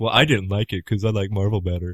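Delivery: put-on snobby, sneering voice. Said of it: "that are going to just be like".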